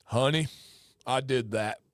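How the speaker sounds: low-pitched put-on Burton accent. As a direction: play a proud lawn guy in a Burton accent. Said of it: "That was a Burton accent".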